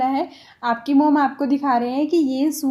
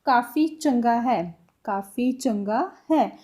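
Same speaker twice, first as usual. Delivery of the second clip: slow demo; 3 semitones lower, slower than usual. Shown as a demonstration. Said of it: "इसको पंजाबी में कैसे बोलेंगे".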